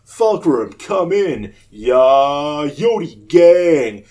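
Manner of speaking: imitating the YouTuber. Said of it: "his whole gimmick is that he, uh, says".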